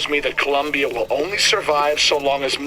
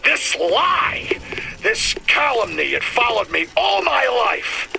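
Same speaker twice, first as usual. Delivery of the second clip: angry outburst; 6 semitones higher than usual. Acted. Bitter father recalls shameful lie.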